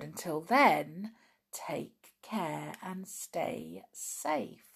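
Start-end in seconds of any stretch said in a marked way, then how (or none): 1.5-4.7 whispering. Acted. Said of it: "soft sign-off".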